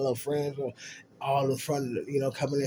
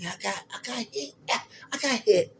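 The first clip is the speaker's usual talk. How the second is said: fake hurt; 9 semitones higher than usual. Faking injury to his friends.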